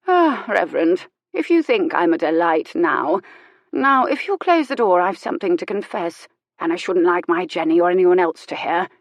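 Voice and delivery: a lightly voiced frail old aristocrat, confiding; old Lady Fenimore. Old lady asks the reverend to close the door, confiding. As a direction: play the sharp old lady, a touch conspiratorial.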